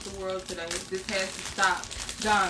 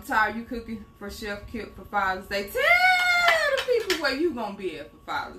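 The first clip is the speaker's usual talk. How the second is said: raised playful call to him. Real, not acted. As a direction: call him out so the room hears. Calling out to husband.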